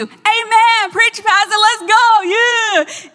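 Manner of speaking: hammed-up church cheer; loud cheering. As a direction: call out to the pastor like a fired-up congregant. Acts out her cheering in service.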